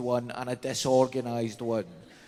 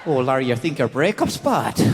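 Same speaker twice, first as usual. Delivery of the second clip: put-on Northern Irish accent; 5 dB louder than usual. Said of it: "a Northern Irish person".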